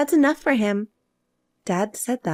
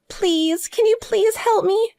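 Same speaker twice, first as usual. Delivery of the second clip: pleading; 7 semitones higher, slower than usual. Acted. Sister begs after being abandoned.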